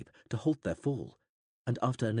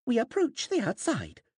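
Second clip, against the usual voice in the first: gasped; 4 dB louder than usual. A narrator's reading. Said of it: "nine seven four Prath gasped".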